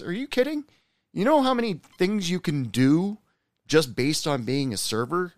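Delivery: are you kidding me, snap them out of it; a friend shocked someone sells themselves short; incredulous pep talk. Retold or imitated. Pep talk to self-pitying server.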